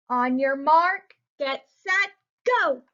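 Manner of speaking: race announcer call. Acted. Announcer calls the trucks to the starting line, loud.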